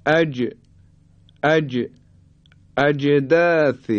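"اجداث" with the ج bounced audibly; qalqalah on jim. Shown as a demonstration. Teacher demonstrating the letter jim, bouncing ج in "اجداث". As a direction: recite "اجداث" slowly, releasing ج with a short echo. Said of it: "حالا به حرف جیم توجه بفرمایید".

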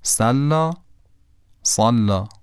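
first سلا with a thin s, second سلا with a heavy ص; سلا اول با سین، دوم با صاد; sin then ṣad contrast. Shown as a demonstration. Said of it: "اولی سینه، دومی صاده".

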